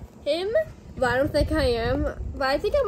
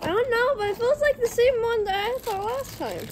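hiccups; 9 semitones higher than usual. Real, not acted. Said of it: "You got the hiccups?".

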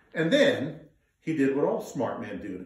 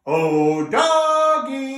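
loud, high drawn-out call; 11 semitones higher, 9 dB louder, much slower than usual. Acted. Family calling the dog. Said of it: "Call out with me".

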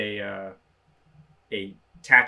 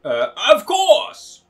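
drawn-out excited; 14 semitones higher, 11 dB louder, much slower than usual. Acted. Enthusiastic character reply.

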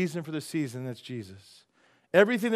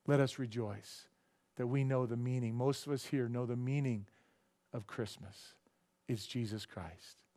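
prayer. Acted. Leads a prayer.

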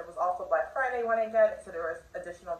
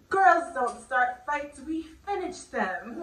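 sassy movie-line quote, higher and drawn out; Marie; 4 semitones higher, slower than usual. Acted. Vlogger quoting the cartoon kitten's line, sassy. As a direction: quote it slowly with playful sass. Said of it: "Like, she's so sassy".

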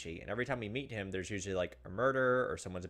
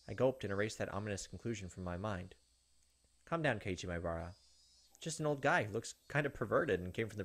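tense story narration. Acted. Streamer reading Higurashi narration to viewers, tense narration. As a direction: narrate it like a creeping horror story. Reads visual novel narration.

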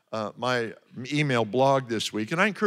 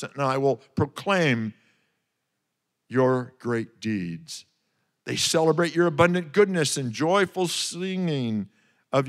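declamatory praise, swelling on key phrases; exultant scripture reading. Acted. Preacher reads David's psalm of praise aloud, exultant proclamation.

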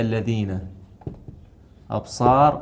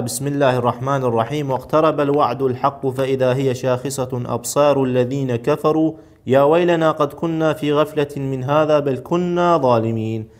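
measured, slightly raised reading of scripture; Quran verse reading. Acted. Teacher reads an exercise verse to students, Quran reading. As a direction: read the verse out clearly, drawing out the long vowels.

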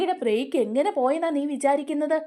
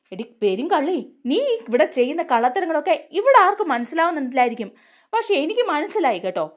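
mildly acted scolding of a thief; angry accusation; 4 semitones higher than usual. Sharath accusing Shruthi, mock angry.

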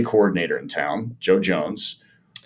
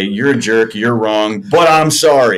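passive-aggressive; 2 semitones higher, 5 dB louder, slower than usual. Retold or imitated. Player half-apologizing to his manager, passive-aggressive. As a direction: apologize while clearly not meaning it. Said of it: "in my passive-aggressive way to say".

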